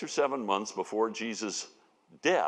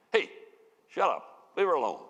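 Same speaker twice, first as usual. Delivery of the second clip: mock barking; 6 semitones higher than usual. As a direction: bark it out as people wrongly imagine it. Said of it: "think he's barking at them".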